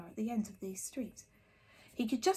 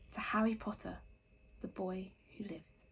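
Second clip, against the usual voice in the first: hushed; 7 dB quieter than usual. A narrator's reading. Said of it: "saying in hushed voices".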